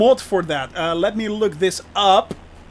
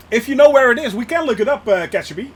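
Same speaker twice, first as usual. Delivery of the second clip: calling out; 3 semitones higher, 6 dB louder, faster than usual. Real, not acted. Calling to chat member.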